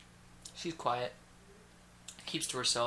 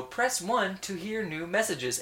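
voicemail robot; 5 semitones higher, slower than usual. Retold or imitated. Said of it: "they go".

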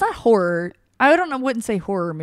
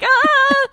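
high, loud mock "ah"; hammed-up high cry; mimicked exclamation; 6 dB louder than usual. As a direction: imitate a co-host's startled cry, high and loud. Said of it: "You were like".

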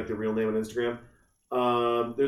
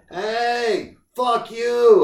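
loud, high mock holler; yelling; 10 semitones higher, 7 dB louder, much slower than usual. Imitating a menopausal wife yelling at people, hammed-up holler. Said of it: "I'm just yelling at people".

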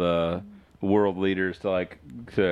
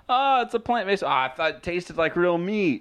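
dumb surprised customer; 11 semitones higher than usual. Retold or imitated. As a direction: gush like a fooled diner. Fooled customer imitated.

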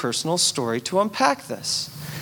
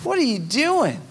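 indignant Jonah; 4 semitones higher than usual. Retold or imitated. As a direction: whine at God like a sulking prophet. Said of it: "Literally verbatim".

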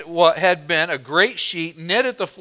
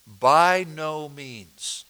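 slow literal reading; 2 semitones lower, much slower than usual. Shown as a demonstration. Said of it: "is literally".

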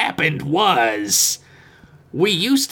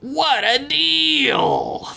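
excited; 9 semitones higher, much slower than usual. Pretend. Ad exclamation, high and slow.

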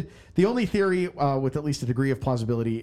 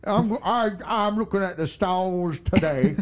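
slow, higher mystic stargazer voice; mystic astrologer Tone Vase; 5 semitones higher, slower than usual. Pretend. Host playing a star-reading crypto guru for his cohost, slow and lofty. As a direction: hold each word like a cosmic prophet. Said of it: "we should do a Tone Vase character".

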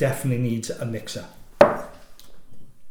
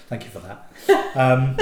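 laughing; 6 dB louder, slower than usual. Real, not acted. Laughs after being teased.

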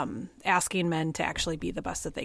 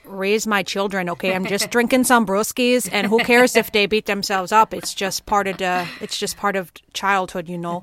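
louder, mocking Southern accent for a defensive dad; 5 dB louder than usual. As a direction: play a beer-drinking Southern dad with a light mock accent. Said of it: "I just like to practice accents".

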